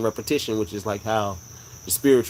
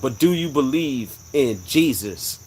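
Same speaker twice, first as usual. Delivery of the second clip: big echoing voice; 2 semitones higher, slower than usual. Retold or imitated. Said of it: "This is a male voice".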